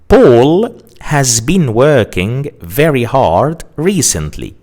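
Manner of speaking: slow. Shown as a demonstration. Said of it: "This is a sentence in the present perfect continuous".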